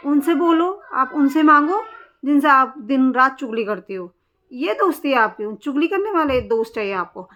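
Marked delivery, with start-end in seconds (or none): 0.1-4.1 rising angry retort; angry demand. Real, not acted. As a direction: hurl it at her: go ask them.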